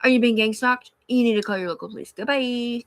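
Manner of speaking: lightly voiced dismissive operator; curt operator. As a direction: brush the caller off quickly. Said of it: "And she's like".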